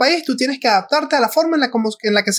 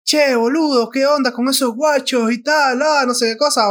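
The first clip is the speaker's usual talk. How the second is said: mock Argentine slang; 4 semitones higher than usual. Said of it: "llegar a un país y estar a la semana siguiente".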